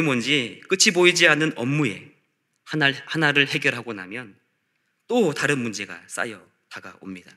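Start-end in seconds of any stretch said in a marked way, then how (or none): none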